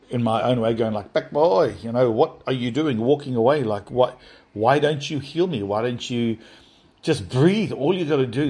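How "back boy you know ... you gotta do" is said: unreasonably angry. Retold or imitated. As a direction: demand it like a hurt, angry child. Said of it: "I got unreasonably angry and started".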